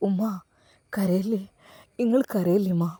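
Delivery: hushed comfort. Acted. Son comforts crying mother.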